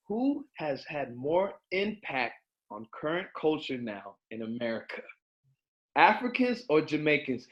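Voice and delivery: slow, deliberate question reading; nice and slow. Real, not acted. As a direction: read it out slowly so everyone hears. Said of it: "nice and slow for y'all to hear".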